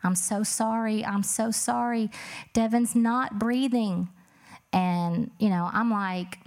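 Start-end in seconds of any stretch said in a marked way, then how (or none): 0.0-4.1 higher, slow, drawn-out distressed plea; retold panicked screaming. Sister-in-law in the background on phone, retold panicked cry. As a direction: retell a scream without really screaming. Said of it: "she was just screaming".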